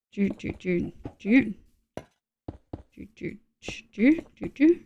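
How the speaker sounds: quiet idle doo-doo sounds; absent-minded little doo noises to yourself; soft "doo" noises. Real, not acted. Streamer busy building, soft idle doo-doo noises.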